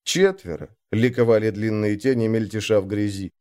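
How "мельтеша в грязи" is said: ordinary delivery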